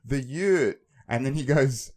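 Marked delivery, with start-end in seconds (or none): 0.1-0.8 loud. Retold or imitated. Playing along with sleeper.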